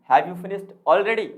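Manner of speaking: slow question with "already" pushed hardest; stress on already. Shown as a demonstration. Teacher repeating the rising example, "already" emphasized. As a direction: make "already" the strongest word. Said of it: "Already सबसे तेज बोलेंगे हम पूरे sentence में".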